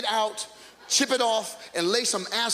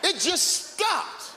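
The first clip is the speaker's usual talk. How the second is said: slow disbelief; 6 semitones higher, much slower than usual. Real, not acted. Marveling at ended sidewalk.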